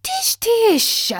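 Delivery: high, brisk scolding tut; dismissive tut. A narrator's reading. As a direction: brush him off sharply. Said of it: "his wife told him".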